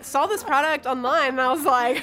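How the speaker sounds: Tiffany. Acted. Cali girl raving about online product, Valley Girl. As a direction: put on an excitable Valley Girl. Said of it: "a character named Tiffany".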